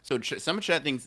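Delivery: high, laughing disbelief. Real, not acted. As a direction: laugh through the words. Laughing at chat's reactions.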